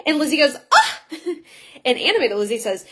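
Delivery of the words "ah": short, sharp "Ah!"; hammed-up indignant cry; mock offended gasp. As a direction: exclaim in acted outrage. Lizzie reacts to losing money.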